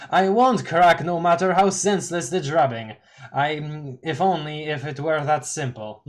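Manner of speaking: Doc Scratch voice. Acted. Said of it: "this voice is I'm doing for him".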